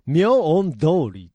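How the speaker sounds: 明恩通り stretched in separate parts; 明恩通り slowly, split in two; imitated intonation. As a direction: draw out 明恩, then 通り. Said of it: "とか言ってる気がしますね".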